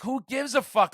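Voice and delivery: high-pitched, exasperated dismissal; retold temper blowout. Manager retelling brushing off band's excuse, exasperated. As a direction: throw their excuse back, mildly heated. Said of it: "my temper had a fucking massive blowout".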